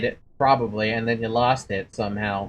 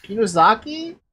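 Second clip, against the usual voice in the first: lightly voiced frightened schoolgirl; 7 semitones higher than usual. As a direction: wake up alone and lost. Reads Mayu lost and scared.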